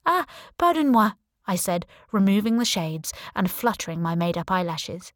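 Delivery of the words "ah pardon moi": high, loud mock French apology; hammed-up French accent, bright and loud; put-on French accent. Playing a French tourist for the officer, fake French accent. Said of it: "in my best French accent".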